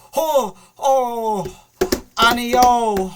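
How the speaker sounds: put-on high, loud gamer-girl squeals; imitated screaming girl. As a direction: mimic a girl shrieking over game chat. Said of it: "girl screaming".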